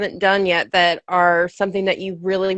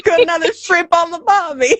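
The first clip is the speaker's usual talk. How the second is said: mock Aussie; 7 semitones higher than usual. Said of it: "joins the Aussie bit".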